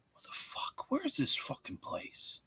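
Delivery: whispered disbelief; hushed muttering. Real, not acted. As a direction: breathe it under your breath.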